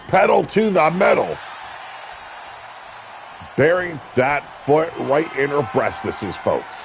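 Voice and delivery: live wrestling play-by-play, rising with the action. Acted. Commentator calling a wrestling match for viewers, play-by-play. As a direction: call the match like a ringside announcer.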